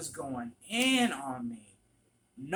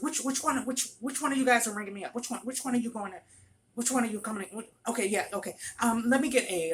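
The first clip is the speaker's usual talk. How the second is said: imitated flustered customer, high and fast; frantic; 8 semitones higher, 4 dB louder, much faster than usual. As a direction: rattle it out, stumbling over repeats. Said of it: "and she was frantic".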